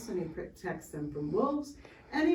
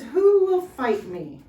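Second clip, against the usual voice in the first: slow, loud, higher roar of a giant; 6 semitones higher, 9 dB louder, slower than usual. A narrator's reading. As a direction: bellow the challenge down the valley. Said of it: "Goliath roared".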